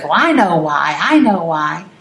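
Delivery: retold emphatic certainty. Uncle insisting to his niece that he knows why, emphatic. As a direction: insist on it, imitating a sure uncle. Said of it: "he said it so emphatically".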